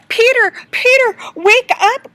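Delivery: loud, high call to wake him; crying out. Acted. Judy shouts to wake her sleeping brother, loud and high. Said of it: "cried Judy".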